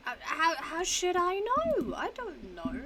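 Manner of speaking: high, loud, drawn-out protest; loud, slow, rising exasperation; baffled outburst. Real, not acted. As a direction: throw it out baffled, voice climbing high. Baffled outburst at a quiz statement.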